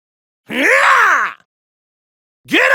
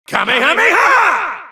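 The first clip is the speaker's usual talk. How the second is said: kamehameha yell; 4 semitones higher than usual. Acted. Battle cry in fight game.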